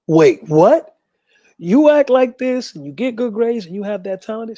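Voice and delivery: stunned disbelief, then amazed; surprised. Retold or imitated. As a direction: caught off guard, asking in amazement. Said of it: "she paused and was like".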